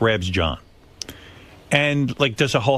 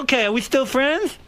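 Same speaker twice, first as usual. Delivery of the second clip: imitating Jay; 11 semitones higher than usual. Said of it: "turns to me and goes".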